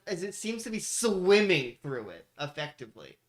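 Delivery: slow, dramatic scene-setting, key words drawn out; game master narration. Acted. Game master reveals a creature crawling from scrap, dramatic narration. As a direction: stretch the vivid words for suspense.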